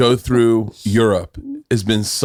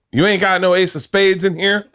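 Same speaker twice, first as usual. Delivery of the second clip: mock rapper; 6 semitones higher than usual. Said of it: "And the rapper's like".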